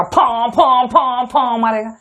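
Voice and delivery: imitating a harmonium struck hard, "फा, फा" puffed out slowly; mock the harsh blast of a hard-hit harmonium. Shown as a demonstration. Teacher mimics a harmonium hit hard for the class, puffed "फा" sounds. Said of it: "तब ऐसे मारेगा".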